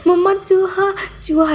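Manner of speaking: high, panicky mock scream; a hammed-up scream for mama; screaming for mom. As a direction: shriek about a mouse like a scared kid. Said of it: "ज़ोर ज़ोर से चिल्लाने".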